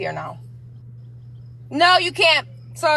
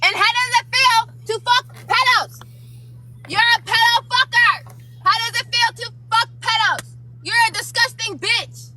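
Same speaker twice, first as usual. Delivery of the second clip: Sassy impression; 9 semitones higher than usual. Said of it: "this is what she's gonna say".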